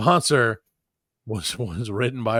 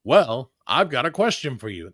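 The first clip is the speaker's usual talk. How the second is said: ad voice. Pretend. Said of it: "written in the voice. I'm gonna do it".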